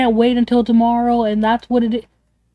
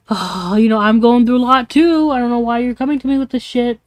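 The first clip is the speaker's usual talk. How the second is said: imitating a put-upon friend brushing someone off; dismissive attitude. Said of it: "that type of attitude".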